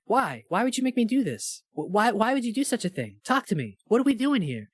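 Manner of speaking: a hint of wounded, earnest Tom; Tom begging. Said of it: "he would be like".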